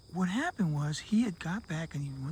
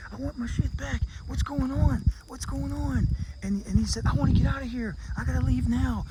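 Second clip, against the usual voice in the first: higher, louder frantic pleading; desperate panic; 7 semitones higher, 4 dB louder than usual. Retold or imitated. The man trapped in hell begs to leave, panicking loudly. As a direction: beg to get out, panicking.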